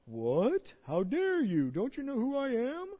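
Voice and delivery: hammed-up indignant voice, rising high at the end; lightly voiced outraged god; mock offended God. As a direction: play a touchy, thin-skinned deity. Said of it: "That's not how he sounds".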